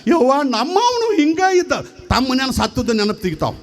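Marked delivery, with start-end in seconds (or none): 0.1-1.7 high singsong wail; hammed-up keening; mock lamenting. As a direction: imitate a mourner remembering her own dead. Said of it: "ಇವು ಏನು ಅಳ್ತಾವ".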